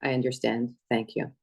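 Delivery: low, subdued retold resignation; turned-off voice. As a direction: imitate someone whose voice has switched off. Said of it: "in that very turned off voice".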